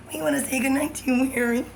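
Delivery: high, quick mock British children's accent; British little kids. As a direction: chirp it like British kids, pitched well up. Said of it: "The little kids do".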